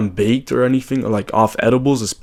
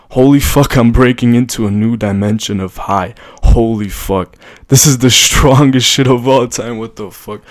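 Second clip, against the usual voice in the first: stoned; 6 dB louder than usual. Retold or imitated. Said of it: "I was high as fuck".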